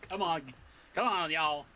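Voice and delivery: rally them with a touch of Southern twang; southern accent. Acted. Player's character urges comrades to move, lightly Southern accent. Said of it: "he got a southern accent all of a sudden".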